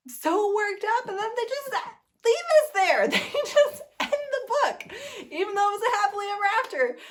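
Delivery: so moved the voice cracks and climbs; voice cracking. Real, not acted. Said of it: "My voice is cracking".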